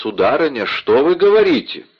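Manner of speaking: alarmed, rising in pitch; startled and cowed; frightened. Acted. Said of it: "струсивший перед семейной бурей". (испуганно)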